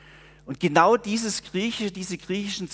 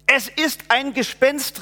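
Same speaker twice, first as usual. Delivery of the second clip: raised, slow cry of fright from the disciples; frightened cry; 7 semitones higher, 4 dB louder than usual. A narrator's reading. Disciples in the boat seeing a ghost, crying out in fear. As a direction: cry out that it's a ghost, scared. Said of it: "riefen sie und schrien vor Angst".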